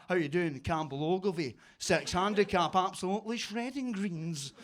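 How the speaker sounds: lightly voiced self-important lawyer; imitating a lawyer type on the golf course; lawyer's-office type. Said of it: "sounded like a lawyer's office".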